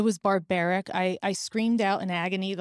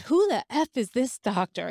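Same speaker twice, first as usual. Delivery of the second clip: a raised, indignant friend imitated; mock outraged shout; 4 semitones higher than usual. Friend on the phone, angry at the doctor, in a mild mock shout. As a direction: huff it out in disbelief, not full volume. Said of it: "And she was shouting".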